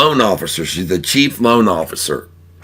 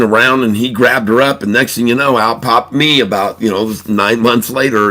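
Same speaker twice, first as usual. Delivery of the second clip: lightly acted frog insisting on a tall tale; insistent. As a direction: press the story eagerly, mildly insistent. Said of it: "And then the frog insists".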